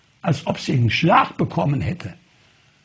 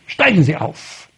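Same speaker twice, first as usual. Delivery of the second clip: curt order; 4 dB louder than usual. Retold or imitated. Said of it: "Da sagt sie ganz herrisch".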